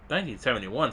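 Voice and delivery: incredulous rising question on "Nineteen seventy-one?"; surprised. Real, not acted. Gamer repeating the file's date in disbelief.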